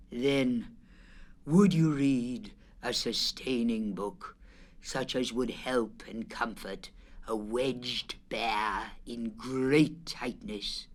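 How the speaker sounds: a wedged bear begging for comfort; mournful plea. Acted. Wedged Pooh pleading tearfully.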